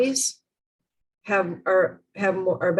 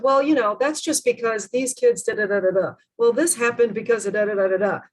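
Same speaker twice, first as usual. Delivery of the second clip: mock defensive; 2 semitones higher than usual. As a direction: make excuses, skimming into da-da-da. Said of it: "defensiveness comes up".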